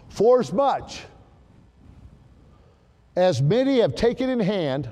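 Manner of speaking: proclaiming the verse; read with emphasis. Shown as a demonstration. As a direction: read it out with weight. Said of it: "Let me read it with some emphasis".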